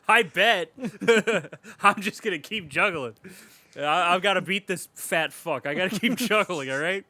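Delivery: lightly voiced single-minded juggler, half-laughing; a hint of a hammed-up man of focus, muttering through laughs; obsessed juggler. Playing determined juggler self.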